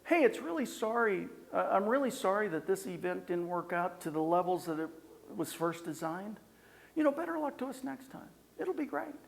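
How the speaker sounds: sunny sympathetic sign-off; upbeat apology. Shown as a demonstration. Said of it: "Tonality, if I say".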